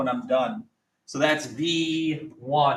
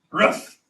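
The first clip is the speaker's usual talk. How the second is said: mock dog bark; 3 semitones higher than usual.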